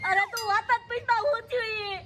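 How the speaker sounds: comic crying. Acted. Uncle wails about his loss.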